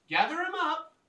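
high, loud goblin order; commanding call. Acted. Goblin shaman ordering her goblins, commanding call. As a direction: call it out to the whole band.

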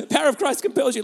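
comically desperate exorcist; mock exorcist. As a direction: cast out a demon, played for laughs. Mock exorcism of his wife.

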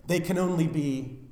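ordinary talk

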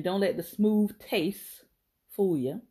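slow, deliberate reading of the saying; each word laid down slowly; slow pronunciation demo. Shown as a demonstration. Reading the phrase aloud to viewers, slow and deliberate.

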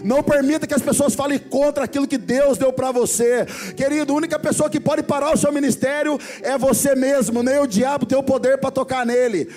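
full-force preaching. Acted. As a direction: preach it with fire to the congregation. Preaching climax.

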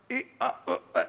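choppy, cut-off syllables of a bad line; phone call breaking up. Preacher mimicking bad reception in Alpharetta, phone call breaking up. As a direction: imitate a call dropping in and out. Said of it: "like I'm ringing from Alpharetta".

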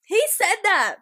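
high, loud, stunned outburst; shocked disbelief. Real, not acted. Co-host reacting to a shocking confession, loud and incredulous. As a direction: blurt it out in loud amazement.

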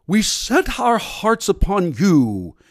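lofty, drawn-out churchy prayer voice; mock formal prayer. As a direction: ham up a pompous old-fashioned prayer. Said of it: "when I see people go".

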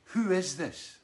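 confused question. Retold or imitated. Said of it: "he goes".

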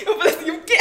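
high, loud laughing mock-startled quote; laughing retelling. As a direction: retell the scare while cracking up. Funny retelling of a scare. (contando o susto às gargalhadas)

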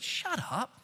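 a soft, affectionate mock scold; sweet "shut up". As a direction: tease him gently, almost fond. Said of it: "she said it sweetly".

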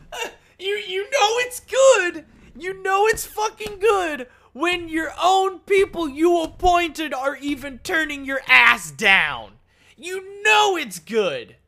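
high, loud, slow, laughing through the words; mock him while cracking up; gleeful high-pitched mocking laugh-talk; laughing mockery. Real, not acted. Mocking Trump's own judges.

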